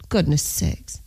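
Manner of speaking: laughing through the words; giggly, slowed down. Real, not acted.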